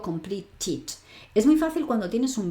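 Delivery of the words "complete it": "complete it" con la sílaba final "it" bien audible; terminación -ed pronunciada. Shown as a demonstration. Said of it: "sí que digo". (terminación "-ed" como sílaba aparte en "complete it")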